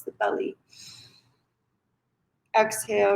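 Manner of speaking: calm instruction with room to breathe; guided meditation. Acted. Yoga teacher guiding shoulder and neck rolls, calm guided meditation. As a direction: talk them gently through each release.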